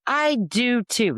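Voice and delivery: high, loud, drawn-out mock holler; grandma calling back. Grandma butting in from across the room, high loud mock holler.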